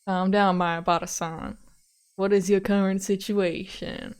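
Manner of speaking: slow, deliberate detective voice; steady the caller, stretching each phrase; calming detective. Acted. Detective to panicking caller, slow and calming.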